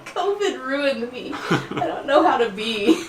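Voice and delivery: slow, giggling self-mocking excuse; laughing. Real, not acted. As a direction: laugh it off sheepishly. Joking excuse after yawning.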